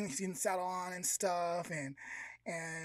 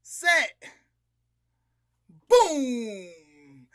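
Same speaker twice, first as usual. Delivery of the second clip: high, loud starter's call; race start shout; 4 semitones higher, 14 dB louder, much slower than usual. Retold or imitated. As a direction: shout the countdown, blast the last word. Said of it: "and he goes".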